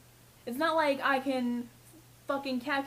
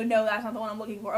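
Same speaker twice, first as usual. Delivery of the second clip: curt customer; 3 semitones lower, 3 dB louder, faster than usual. Retold or imitated. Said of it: "And you go".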